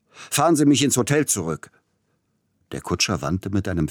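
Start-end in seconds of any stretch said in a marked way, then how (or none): 0.1-1.7 higher, louder, harsh command; rough shout. Acted. Passenger ordering coachman back to hotel, harsh shout. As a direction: snap the order at the driver. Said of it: "ließ nun eine raue hören".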